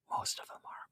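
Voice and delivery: whispered joking aside; unvoiced conspiratorial whisper.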